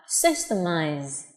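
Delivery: "systemize" slow, ending on a buzzing z; final z. Shown as a demonstration. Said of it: "âm z".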